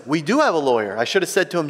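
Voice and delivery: normal talking voice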